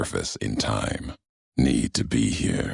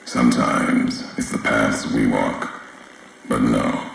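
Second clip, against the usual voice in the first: louder, solemn voice coming over a transmitter; echoing broadcast voice; 4 dB louder than usual. Acted. A distant figure addressing the courier, solemn broadcast voice. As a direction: speak like a message carried across a wasteland.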